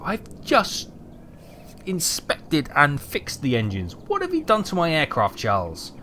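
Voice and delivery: hammed-up exasperated rant at the pilots; mock rant. Mechanic mock-ranting about the pilots who break his aircraft. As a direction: grumble like a fed-up mechanic about careless flyboys. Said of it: "Rant over".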